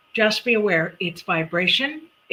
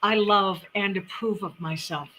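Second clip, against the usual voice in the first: slow, measured, softer self-affirmation; mirror affirmation; 4 dB quieter than usual. Shown as a demonstration. Host showing listeners how to affirm in the mirror, slow and sincere. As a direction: say it slowly and sincerely to yourself. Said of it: "you look in the mirror and you say".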